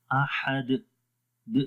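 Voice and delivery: 「احد」の最後にハムザの詰まりを付ける; احد ending with a glottal catch; wrong hamza ending. Shown as a demonstration. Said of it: "آخر میں حمزہ کی آواز پڑھ دیتے ہیں".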